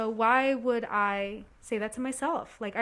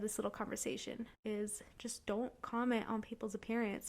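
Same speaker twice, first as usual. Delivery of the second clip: soft unvoiced whisper on this little conversation; 8 dB quieter than usual. Real, not acted. Host softly whispering an aside to listeners. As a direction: drop to a breathy aside.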